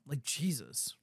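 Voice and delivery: breathy whisper of disbelief; whispered disgust. Real, not acted. Co-host reacts to her photo with a disgusted whisper.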